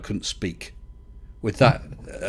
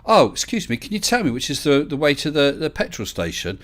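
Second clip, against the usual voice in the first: lightly acted, higher-pitched polite enquiry; polite driver asking directions; 4 semitones higher than usual. Voices a polite British driver asking.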